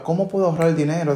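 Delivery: a brisk, eager question; quick asking. Shown as a demonstration. The right phrasing to use, asked quickly. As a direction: ask it like you are already solving it. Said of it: "no diga".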